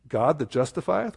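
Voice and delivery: "God that justifieth?" asked as a real question, rising; read as a question. Shown as a demonstration. Preacher shows the congregation how to read the verse as a question. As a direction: ask it, don't state it. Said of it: "with a question mark".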